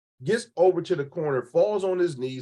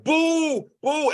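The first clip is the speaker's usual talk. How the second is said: high mocking boo; mock heckler; 11 semitones higher than usual. Imitating a heckler booing her from the front, high mock boo.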